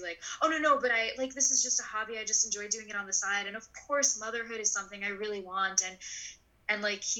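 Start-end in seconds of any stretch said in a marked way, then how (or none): 0.4-5.8 mock eager reassurance to a date; eager backpedal. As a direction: hurry to reassure him, pitched up. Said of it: "shifted gears from bragging to".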